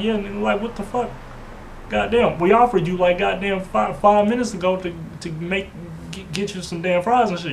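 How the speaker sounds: high, heated retold rant; exasperated high-pitched retelling; retold outburst. Retelling his outburst at the man.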